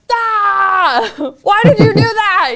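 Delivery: high, loud shouting with a crying edge; a high, loud, tearful yell; upset shout. Retold or imitated. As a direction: cry out in shock at the driver. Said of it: "I immediately just wanna be like".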